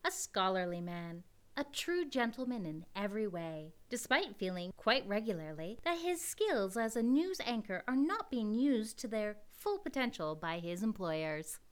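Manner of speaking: smooth radio announcer setting the scene; announcer narration. Acted. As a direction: narrate like an old radio host.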